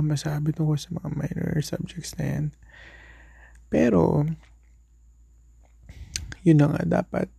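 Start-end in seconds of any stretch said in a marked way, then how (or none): 0.0-2.5 fast whispered aside. Real, not acted. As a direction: whisper it quickly to yourself.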